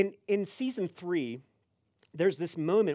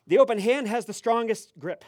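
loud, raised pronouncement; super serious stranger; 6 semitones higher, 9 dB louder than usual. Retold or imitated. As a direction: declare the cliché like profound truth. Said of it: "super serious".

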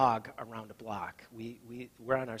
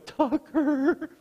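very high, loud cry of the name; family yelling as the dog lunges at them; startled yell; 14 semitones higher, 9 dB louder than usual. Retold or imitated. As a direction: yelp it as the dog charges.

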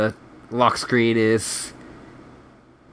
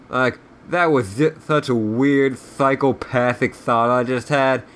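irritable officer, lightly voiced, lisping; surly lisping Southern general. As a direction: grumble insults with a touch of Southern lisp.

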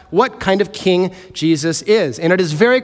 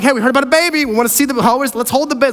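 higher, eager mock shepherds; 5 semitones higher, much faster than usual. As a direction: play the pushy visitors lightly. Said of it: "And they're like".

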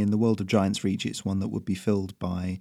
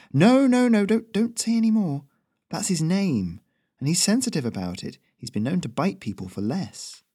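urgent Ferrino; 8 semitones higher than usual. Acted. Messenger urgently warns the local, very high. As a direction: stop him before he says more.

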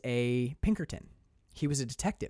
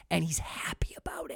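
whispered aside; 2 semitones higher, 6 dB quieter than usual. Real, not acted. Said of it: "whispered aside".

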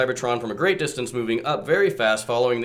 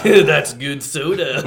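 satisfied slow voice; 3 semitones higher, 7 dB louder, slower than usual. Acted. Mock Unicron after sipping.

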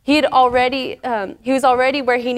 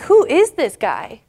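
mock outrage, higher and slow; indignant; 5 semitones higher than usual. David hearing the giant's taunts, acted indignant. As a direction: retell it as affronted disbelief. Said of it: "enraged. He's, he's getting upset".

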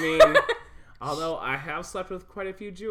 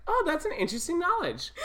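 high, fast mock-excited friend; 12 semitones higher, faster than usual. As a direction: ham up her fake excitement. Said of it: "she looked excited".

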